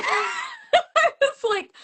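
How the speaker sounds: tag. Retold or imitated. Acts out her scream, laughing.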